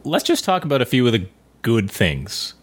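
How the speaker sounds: "few" picked out with emphasis as a limit; stress on few. Real, not acted. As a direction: lean on the word "few". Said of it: "I emphasize the word few here".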